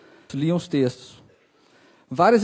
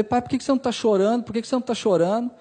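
fast, higher-pitched reproach without shouting; retold angry scolding; 4 semitones higher, faster than usual. Son berating his serene father over the diagnosis, agitated reproach. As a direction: fire the questions at him, quick and high. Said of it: "comecei a xingar meu pai".

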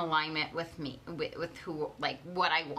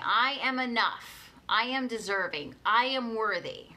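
affirmation; 3 semitones higher, 3 dB louder than usual. Shown as a demonstration. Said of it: "Say it with me".

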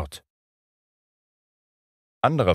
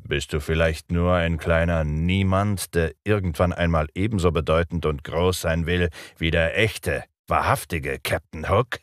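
spiteful. Acted. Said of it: "gehässig klingenden Unterton".

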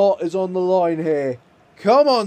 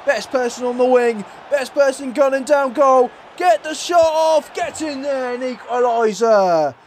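rising excitement, higher, pushing to the finish; excited build-up; 5 semitones higher than usual. Real, not acted. Gamer urging his striker to score, rising excitement. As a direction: cheer the attack on toward the goal. Live goal chance building.

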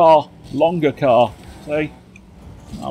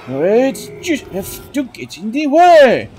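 high squeak; 8 semitones higher than usual. Acted.

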